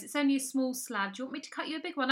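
chirpy imitation of the cheese seller; shopkeeper voice. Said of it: "And she goes".

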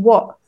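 "what" with its t made in the throat; glottal stop. Shown as a demonstration. Linguist pointing out the t, glottal-stopped "what". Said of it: "is sometimes a glottal stop".

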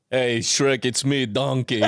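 put-on playful Arnold-style Austrian accent; lightly hammed Arnold accent; Arnold Schwarzenegger accent. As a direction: Austrian action hero as a cartoon sidekick. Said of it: "our man Arnold would have done it".

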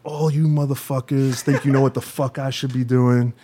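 imitating an angry rant; a mild retold blow-up, lion let loose; angry tirade. Puffy ranting at the label staff, retold mildly. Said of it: "raise his intonation, and his energy came up".

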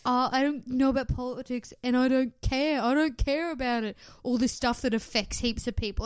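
exaggerated "don't care" act; mock indifference. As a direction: parody yourself as airily ignorant. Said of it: "they'll think that I'm being like".

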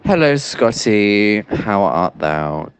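slow, grand mock-Shakespearean hello; jokey slowed-down theatrical greeting; mock archaic greeting. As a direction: greet him like a ham actor on stage. Caller's jokey mock-old greeting.

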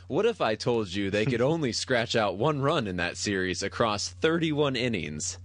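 dramatic documentary narrator voice; ESPN 30 for 30 announcer. Pretend. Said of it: "E S P N thirty for thirty announcer voice".

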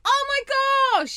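high, drawn-out gush of wonder; slow, high-pitched coo of delight; delighted amazement. Real, not acted. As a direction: gush over a lovely surprise. Co-host reacts to the card.

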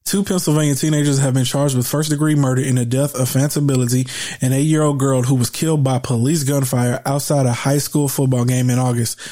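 measured read-aloud of a report; news read. Real, not acted.

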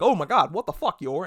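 reliving the jolt of surprise; retold freak-out. Viewer startled by Yor on the ceiling, mock shocked. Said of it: "I freaked out".

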